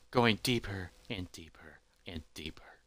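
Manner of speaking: low, soft, sinking narration; fading away. A narrator's reading. Narrator following a stick falling into the pit, fading away. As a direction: let each repeat drop further away.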